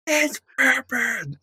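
drawn-out, high, laughing shout of delight; excited recognition. Retold or imitated. Host reliving the moment she spotted Pippin's actor, squealing. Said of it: "I'm just like".

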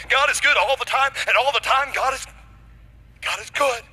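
high, loud church-mother saying; lightly acted church-mother enthusiasm. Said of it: "that's what church mothers say".

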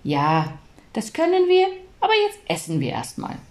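calming mum. Acted. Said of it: "Mama beruhigte Paul".

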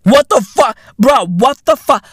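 high, loud disbelieving outburst; incredulous. Retold or imitated. Reacting to the minister's emoji tweet, high shocked disbelief. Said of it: "I'd be like".

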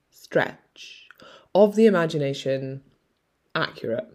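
whispered under the breath; whispering. Real, not acted. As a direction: drop to an unvoiced whisper. Drops to a whisper mid-phrase.

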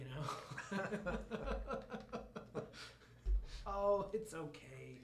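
rough, grainy patient voice. Retold or imitated. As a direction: rasp it like a grateful patient. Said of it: "we're doing it in the grainy voice".

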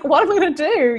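half-laughing fake panic; what am I going to do, laughed out; mock panic. Panicked retold thought, laughing.

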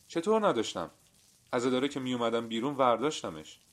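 high, loud and taken aback; indignant protest. A narrator's reading. Customer insisting to the cobbler he had it, indignant.

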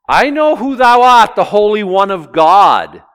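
loud, high, panicked outcry; freaking out. Acted. Demon recognizing the Holy One of God, freaking out loudly. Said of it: "And he's freaking out".

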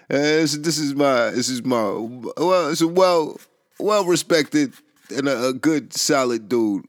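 rising to a shout of disbelief; outraged protest. Retold or imitated. Protesting to the homie about a respected friend, loud and high.

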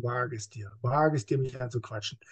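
low menacing warning; killing energy. Shown as a demonstration. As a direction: warn them off with quiet threat. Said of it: "diese Killing Energy auch denke".

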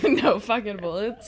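slow laughing grumble; lightly voiced grouch; mock-grumpy, laughing; angry grumbling. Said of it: "Angry grumbling".

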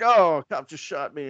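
mildly exaggerated oh-no reaction; mock dismay. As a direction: retell it as a comically put-upon victim. Retold dazed victim of cop shooting.

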